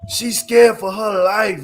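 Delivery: slow gleeful mocking about her fear; laughing mockery. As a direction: stretch it out while cracking up. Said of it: "I said".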